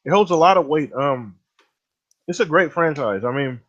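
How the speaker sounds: words around a snack; chewing while talking. Real, not acted. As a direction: talk with food in mouth. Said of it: "I'm chewing here".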